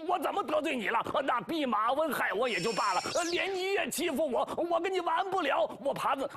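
high, whiny pig-spirit complaint; sulky and wounded, going up high; Zhu Bajie grumbling. Acted. Zhu Bajie whines at the woodpecker, high and aggrieved.

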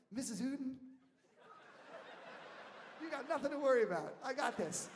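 high, loud, heroic promise; mock-heroic assurance; retold confident reassurance. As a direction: take charge with big, laughing bravado. Acts out reassuring the worried mother.

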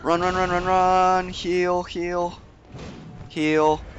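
frantic urging to run; being chased. Real, not acted. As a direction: run for it, panicked. Fleeing a monster in game.

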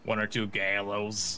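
put-on slurred drunk answer; mumbled tipsy reply. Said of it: "And you're slurring your words".

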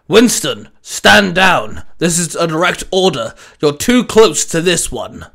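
barked order. Acted. Commanding officer orders Winston to back off, barked. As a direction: bark it like a superior officer. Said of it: "his commanding officer barked through his communicator".

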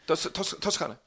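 put-on hammy Italian accent; overdone Italian pronunciation of Toscana; fake Italian accent. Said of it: "don't pretend to speak Italian".

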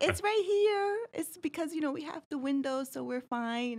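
high, lightly voiced defensive clerk. Postal clerk answering a child about her mask, mildly defensive. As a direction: explain politely but a bit defensive. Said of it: "she was like".

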